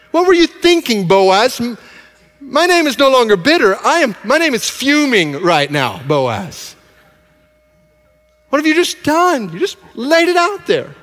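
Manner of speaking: high, loud, furious scolding; livid rant. Acted. Naomi scolding Boaz for the lost deal, hammed-up livid rant. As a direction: let Naomi blow up at him, pitch flying. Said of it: "she's now livid".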